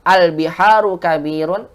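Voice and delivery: "Al biharu kabirun" loud, rising at the end; question intonation. Shown as a demonstration. Teacher contrasting intonation only, "Al biharu kabirun" rising. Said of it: "membedakan intonasi aja".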